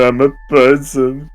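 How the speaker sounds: mocking the heroine. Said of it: "And then she said".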